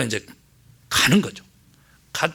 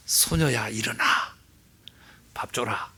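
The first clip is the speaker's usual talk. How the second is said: put-on soft, tender call to the girl; Jesus softly waking the girl, tender; gentle quiet; 6 semitones lower, 10 dB quieter than usual. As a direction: ease down to a gentle near-whisper.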